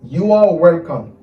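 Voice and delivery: slow, loud, clearly projected phrase; loud, drawn-out teaching delivery; slow model phrase. Shown as a demonstration. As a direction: project each word for learners. Teacher models English phrase slowly.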